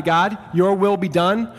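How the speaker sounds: slow, rising plea of surrender; slow yielding prayer, rising on will. Shown as a demonstration. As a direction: offer it up to God slowly, lifting at will. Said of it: "Either you say to God".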